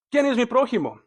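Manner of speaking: agudo y rápido, desafiante; tírale la pregunta a Jesús, agudo; pregunta del intérprete. Acted. Voz del intérprete citada. (el intérprete, queriendo justificarse, pregunta agudo y rápido)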